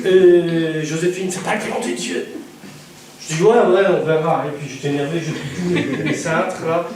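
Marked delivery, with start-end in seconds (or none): 1.3-2.3 whispered aside. Retold or imitated. Joséphine's remark voiced.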